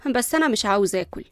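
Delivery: cool, understated refusal; detached and unbothered; cold. Acted. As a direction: decline with indifference, no push in the voice. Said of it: "وليندا قالت ببرود".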